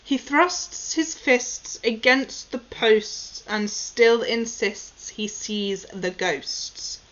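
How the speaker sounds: slow, careful articulation drill; slow tongue twister. Shown as a demonstration. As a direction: say each word deliberately. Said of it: "Okay, number one".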